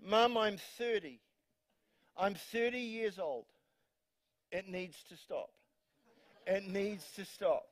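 lightly voiced grumbling son; mock exasperated grown son. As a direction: plead like a thirty-year-old sick of mum. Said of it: "I just picture Reuben here".

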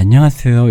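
안녕하세요 with the s softened toward sh; 안녕하세요 said with a lisping, tongue-forward s; slushy sh for s. Retold or imitated. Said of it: "이렇게".

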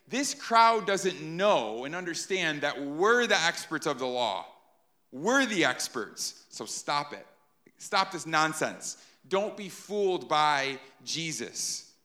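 a touch of slow, lecturing scorn; condescending experts. Retold or imitated. Pharisees dismissing the crowd, mildly scornful. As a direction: put the crowd in its place, slowly. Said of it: "speaking very condescendingly".

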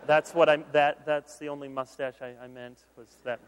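backpedaling husband. Retold or imitated. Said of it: "And he says".

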